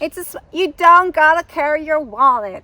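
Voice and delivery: loud, high mock American; bad American accent. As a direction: push the point in a hammed-up American accent. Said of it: "I don't know why I did an American accent".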